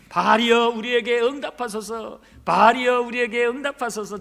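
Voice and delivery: loud opening call, then measured plea; lofty invocation. Acted. Baal prophets praying to their god, mock-solemn invocation. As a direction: intone it as a dignified ritual appeal. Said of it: "처음에는 고상하게 부드럽게".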